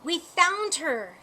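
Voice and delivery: slow, loud, excited call; shouting. Acted. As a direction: girls shouting the good news across the crowd. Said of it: "shouted the girls".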